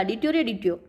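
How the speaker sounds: "डिट्यो रे डिट्यो" with lisped hard ट sounds; childlike mispronounced "डिट्यो रे डिट्यो", pitch dropping low; lisping cry. A narrator's reading. Hungry boy calls out on seeing the sun god, lisping. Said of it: "वो थोड़ा तुतला कर बोलता था".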